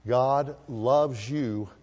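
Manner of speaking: very slow, weighted reassurance; slow right down and reassure them; tender assurance. Acted. Preacher assuring his congregation tonight, slow and tender.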